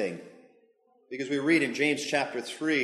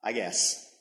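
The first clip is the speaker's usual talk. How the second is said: resigned shrug; 3 semitones lower than usual. Acted. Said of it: "throws up his hands".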